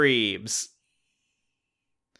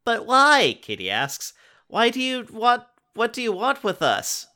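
put-on frightened girl; 12 semitones higher, 4 dB louder than usual. Katie pleads with alien.

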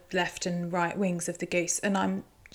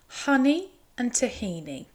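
higher and savouring, HONEY stressed; intrigued; 5 semitones higher than usual. Real, not acted. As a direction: relish each word, intrigued. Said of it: "I'm so intrigued".

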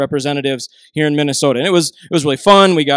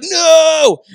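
high, loud, drawn-out mock wail; horrified refusal; 10 semitones higher, 5 dB louder than usual. Teen son learns of nursing home trip, horrified wail. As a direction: imitate a teen's dramatic cry of refusal.

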